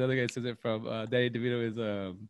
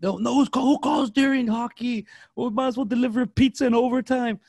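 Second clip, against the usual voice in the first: high, loud mock outcry; worked-up movie impression; 12 semitones higher, 6 dB louder than usual. Podcaster re-enacts a hockey movie scene, loud high mock outcry. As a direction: act out the outraged line, pitched way up.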